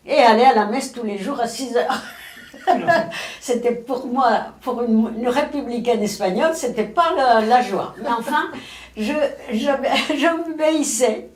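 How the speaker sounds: rueful chuckle through the words; laughing. Real, not acted. Old woman laughing to interviewer about forced mass, amused.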